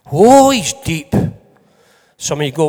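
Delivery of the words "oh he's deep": slow, drawn-out mock awe; mock impressed churchgoer. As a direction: play a dazzled listener, lightly. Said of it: "walk out the door and go".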